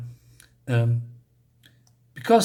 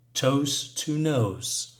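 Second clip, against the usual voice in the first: tender goodbye; 2 semitones lower, 4 dB quieter, much slower than usual. Acted. Mama's loving goodbye to kids.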